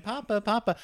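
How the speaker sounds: closer voice. Shown as a demonstration. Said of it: "then we come in".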